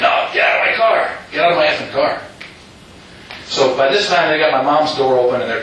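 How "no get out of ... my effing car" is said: retelling the gunman's shout at the car window; mock shouted threat. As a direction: bark the order like the gunman. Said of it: "He said".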